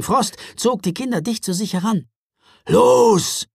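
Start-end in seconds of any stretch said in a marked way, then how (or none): 2.7-3.5 louder, higher urgent call. A narrator's reading. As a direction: call the children to run. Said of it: "rief er".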